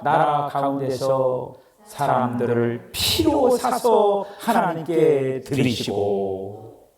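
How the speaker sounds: slow, solemn Bible reading; scripture reading. Acted. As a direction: read the verse reverently and slowly. Reads scripture aloud.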